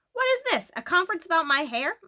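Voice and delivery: high, loud mock-indignant question; amused protest. A narrator's reading. Mister Quimby to his wife and daughters, mock indignant. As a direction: pretend to be put upon. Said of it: "asked Mister Quimby".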